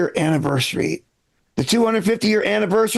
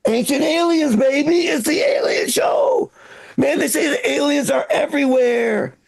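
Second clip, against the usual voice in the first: mock hyped-up enthusiasm; 3 semitones higher than usual. Hyping alien show.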